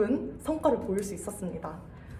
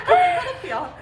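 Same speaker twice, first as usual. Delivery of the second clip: high laughing burst into words; 13 semitones higher, 8 dB louder, slower than usual. Real, not acted. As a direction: laugh through the word. Laughing during product test.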